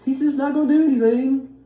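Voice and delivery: sarcastic imitation of weak faith; mocking a doubter. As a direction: parody people who expect nothing. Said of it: "That's who now we're like".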